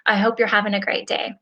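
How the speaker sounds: even, level monotone delivery. Shown as a demonstration. Coach showing how a written message reads, in a monotone. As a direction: say it with no enthusiasm, all on one note. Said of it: "like, monotone".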